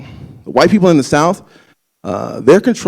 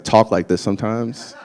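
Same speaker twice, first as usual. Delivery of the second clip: white voice; 3 semitones lower, 5 dB quieter than usual. Real, not acted. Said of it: "you call it my white voice".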